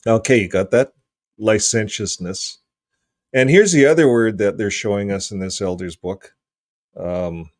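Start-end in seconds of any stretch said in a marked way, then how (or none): 1.4-2.6 "Licentiousness" as ly-SEN-shus-ness; stress second syllable. Shown as a demonstration. Host copying the pronunciation clip, "Licentiousness" stressed on "sen". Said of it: "stress on the second syllable".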